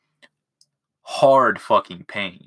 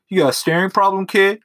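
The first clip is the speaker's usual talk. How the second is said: higher, louder mock-tough challenge; tough guy threat; 10 semitones higher, 4 dB louder than usual. Narrator catches a kid staring at his eye, mock tough-guy threat. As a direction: bark it at the kid like a movie heavy. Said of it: "I'm gonna go ahead and be a scary dude".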